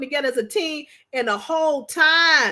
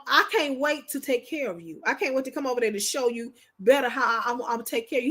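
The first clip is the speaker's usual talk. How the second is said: tender husband quote; 4 semitones lower, 5 dB quieter than usual. Retold or imitated. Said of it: "My husband tell me".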